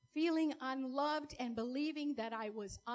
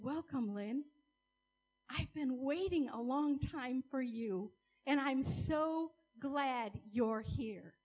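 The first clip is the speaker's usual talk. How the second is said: slow, gentle welcoming voice; Jesus welcoming; slower than usual. Retold or imitated. Jesus welcomes Lynn at the church door, tender. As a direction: welcome her tenderly, slowing at the end. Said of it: "And he said".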